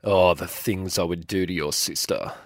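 very low, breathy whisper right into the ear; a would-be sexy whisper that lands creepy; creepy deep whisper. Acted. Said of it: "You sounded gross and creepy".

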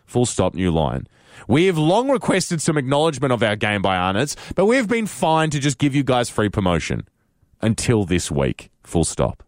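reading the email aloud with punctuation spoken; dictating a telegram. Shown as a demonstration. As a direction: read it out like a telegram, saying every comma. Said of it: "I will actually read this to you as if it was a telegram".

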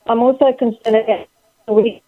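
breaking up on a bad phone line; drowned in static. Real, not acted. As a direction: voice cutting in and out. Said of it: "Anne, you're breaking up a little bit there".

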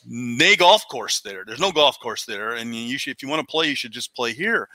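lightly put-on Scottish brogue, warning off a visitor; Scottish accent. Old clubhouse local turning the golfer away, in a mild mock Scottish accent. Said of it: "Scottish accent".

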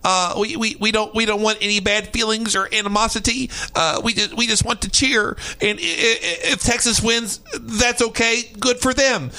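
put-on sweet Midwestern accent, laughing through it; mock Midwestern accent. Host mocking polite BYU fans in a Midwestern accent. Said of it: "Midwestern accent".

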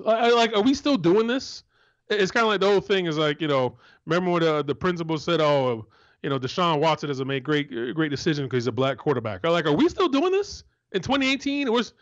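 high-pitched, disbelieving outrage; incredulous anger. Real, not acted. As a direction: voice climbing in disbelief, fed up. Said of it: "I understand why you're so angry".

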